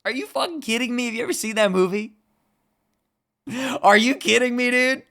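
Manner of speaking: high, loud disbelief; can't believe they haven't seen it; high, loud incredulous rant. Real, not acted. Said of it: "incredulous rant about Click".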